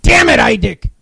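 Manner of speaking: mock exasperated shout. Yelling at his cohost over a flat read, mock outrage. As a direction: bellow the name like you've had it.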